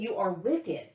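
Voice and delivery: controlled, falling accusation; angry accusation. Real, not acted. Woman accusing her mother, contained anger. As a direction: state the condemnation firmly.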